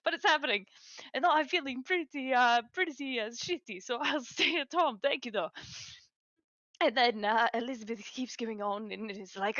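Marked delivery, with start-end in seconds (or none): 1.1-5.5 put-on higher-pitched Italian accent. Sick young man declining to come along, Italian accent. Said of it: "I don't know why I did an Italian accent".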